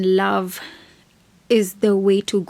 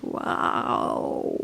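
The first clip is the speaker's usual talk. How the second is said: a breathless, stunned wow; an airless, speechless wow; 6 dB quieter than usual. Real, not acted. Reacting to Moira's crying.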